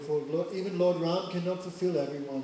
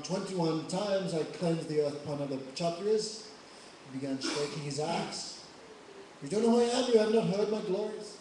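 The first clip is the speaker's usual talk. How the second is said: furious Parshuram. Acted. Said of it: "Parshuram more angry".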